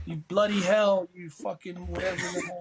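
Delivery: half-hearted mock English accent; lightly attempted English swearing voice. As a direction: have a loose go at an English accent. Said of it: "in his English accent".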